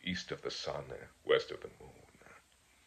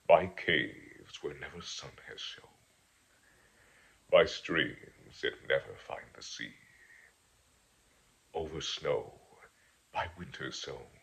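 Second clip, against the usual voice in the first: poem reading. Acted. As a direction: read it like a wandering ballad, unhurried. Reads a Tolkien poem aloud.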